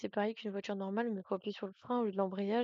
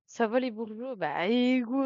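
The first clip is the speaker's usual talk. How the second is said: louder greeting shouted at chat; loud call-out; 6 dB louder, slower than usual. Real, not acted. Streamer calling out to chat, loud.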